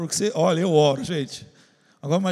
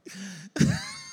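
high laugh; 4 dB quieter than usual. Real, not acted. Laughs at own prayer.

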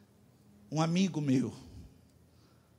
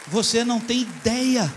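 high, loud preacher's cry; preaching shout; 7 semitones higher, 10 dB louder than usual. Real, not acted. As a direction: belt it out to the congregation. Pregador exclama à congregação. (grito de pregador)

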